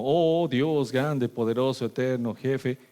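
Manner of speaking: slow, lofty formal address; mock grand prayer. Believer addressing God too formally, pompous. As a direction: intone it pompously and stiffly.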